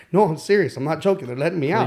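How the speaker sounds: high and loud insistence; insistent. Retold or imitated. To his girlfriend who says yeah right, insistent. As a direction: convince her it's true.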